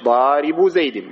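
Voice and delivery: ضارب زيد said slowly as daribu zaydi, no nunation; drawn-out model answer, ضارب without the -un ending; correct construct form. Shown as a demonstration. Teacher giving students the correct form, slow and deliberate. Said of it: "إذا أضفت تقول إيش".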